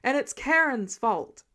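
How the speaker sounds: loud, slow yell blaming someone else; yelled back. Acted. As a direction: call it out from the other room. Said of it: "a new voice yelled back".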